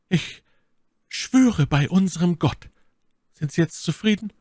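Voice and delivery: a lightly voiced lady taking an oath; solemn oath. A narrator's reading.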